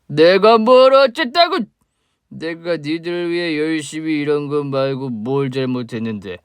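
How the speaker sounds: put-on slow, slurring drunk man, bitter and loud; a sloppy drunk spitting out old grudges; drunk father. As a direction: drunk father accusing the woman he mistakes for his wife. Drunk father confronts ex-wife.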